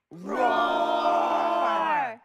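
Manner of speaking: long drawn-out playful roar; dinosaur voice. Pretend. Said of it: "Can you roar like a dinosaur?".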